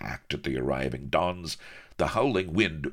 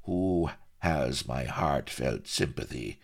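with feeling. Acted. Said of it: "he added with feeling".

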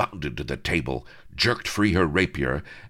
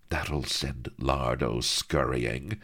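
sarcastic; slower than usual. Acted. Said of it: "cried Vanity sarcastically".

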